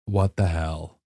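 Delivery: low, soft, deflated; gutted disbelief. Retold or imitated. Missionary standing before double mirrors, gutted disbelief. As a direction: let it drop out quietly, hollow.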